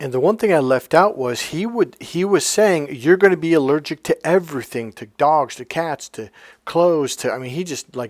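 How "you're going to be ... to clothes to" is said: plain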